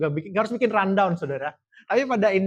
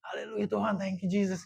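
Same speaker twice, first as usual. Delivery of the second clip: lightly acted, high-pitched thanksgiving; mock jubilant prayer; relieved praise; 5 semitones higher than usual. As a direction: re-enact grateful praise, pitched up. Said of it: "bilang haleluya paling kenceng".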